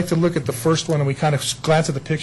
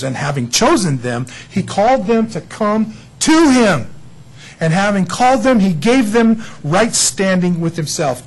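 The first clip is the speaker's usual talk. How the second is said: scripture reading; 3 dB louder than usual. Acted. Reads scripture passage.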